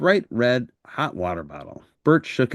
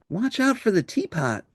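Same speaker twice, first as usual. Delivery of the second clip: cried out; 10 semitones higher than usual. Acted. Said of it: "cried Maria".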